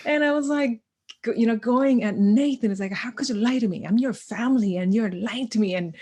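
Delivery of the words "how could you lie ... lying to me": scolding. Retold or imitated. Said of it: "I am raising my voice".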